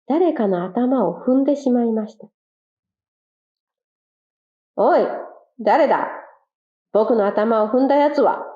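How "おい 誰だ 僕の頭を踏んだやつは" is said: a hint of a stepped-on quail snapping; mild angry quail. Stepped-on quail confronting whoever trod on him, mildly angry. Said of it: "腹を立てました".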